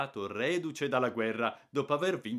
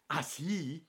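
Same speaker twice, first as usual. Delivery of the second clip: higher, trembling with rage; shrill angry cry; 8 semitones higher, 4 dB louder than usual. A narrator's reading. Aunt rounding on the cheeky boy, shrill angry cry. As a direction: snap back trembling with anger. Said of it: "ha gridato ... voce stridula e tremando dalla rabbia".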